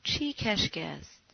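slow, drawn-out question, only a touch of a howl; understated howl. A narrator's reading. Friend answers Glukman's scoffing with a slow, subdued howl. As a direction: stretch the question into a restrained howl. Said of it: "شوننبام زوزه کشان گفت".

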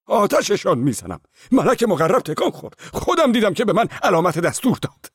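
very high, loud ecstatic declaration; crazed monk exults before the icon; joyful firm voice. Acted. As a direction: exult as if God gave the sign. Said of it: "با مسرت و شادی ... با صدایی محکم".

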